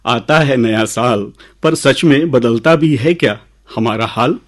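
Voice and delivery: measured, lilting recital with pauses; poem recitation. Acted. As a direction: recite verse to an audience, leaning on key words. Recites his own poem.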